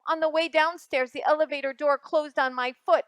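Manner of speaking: a hint of a sulky boy complaining; mildly whiny kid narrator; lightly voiced grumpy boy. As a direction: grumble through your bad morning. Reads story as Alexander.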